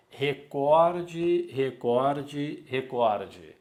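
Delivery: recorde said with the stress on the middle syllable, open cor; recorde, stress on KOR. Shown as a demonstration. Teacher drilling the correct recorde, stress on cor. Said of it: "a palavra é recorde".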